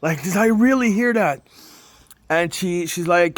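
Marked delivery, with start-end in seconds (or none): 0.0-1.5 higher-pitched, re-enacted amazement; mock-tearful astonished question; retold tearful disbelief. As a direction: replay the stunned disbelief, pitch up. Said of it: "I'm crying and I'm".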